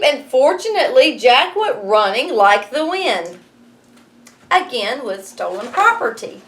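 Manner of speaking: lively read-aloud storytelling; story narration. A narrator's reading. Teacher reading Jack and the Beanstalk to her class, lively narration.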